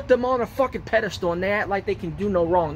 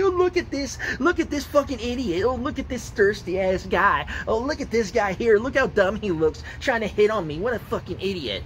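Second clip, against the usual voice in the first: mocking woman voice. Man mimics women mocking guys in DMs, sneering. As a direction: sneer it like a mean girl laughing at a guy. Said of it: "mock them and say".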